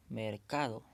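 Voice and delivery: "mercado" stressed on the middle syllable, ca. Shown as a demonstration. Teacher showing the tonic middle syllable, stress on "ca" in "mercado". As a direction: lean on "ca" in "mercado". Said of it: "la sílaba tónica es".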